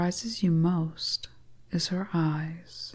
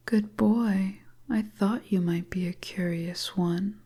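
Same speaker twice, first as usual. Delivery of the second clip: a hint of a teasing witch, whispered; whispering seductress. Stranger luring the lost traveller into her hut, teasing whisper. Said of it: "the beautiful stranger starts to speak".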